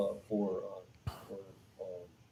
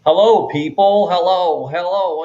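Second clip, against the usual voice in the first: loud, high, booming hello to the audience; loud greeting; 7 semitones higher, 11 dB louder than usual. Real, not acted. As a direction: belt the hello out to the crowd. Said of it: "Say hi to the people".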